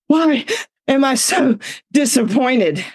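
a touch of tearful wail; retold sobbing. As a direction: imitate crying with broken-up phrasing. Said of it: "And I'm sobbing".

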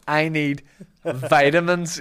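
mock American accent, loud and high; a hammed-up American drawl. Shown as a demonstration. Host shows the listeners the comment line, American accent. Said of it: "you gotta say it in an American accent".

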